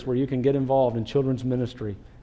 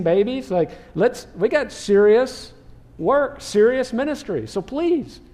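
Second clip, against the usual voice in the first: higher-pitched, mildly exasperated pleading; lightly acted impatient disciples; 5 semitones higher than usual. Disciples telling parents there's serious ministry, mildly impatient plea. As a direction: press the point as a busy organizer, lightly acted. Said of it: "I'm guessing they think it's kind of a waste of time".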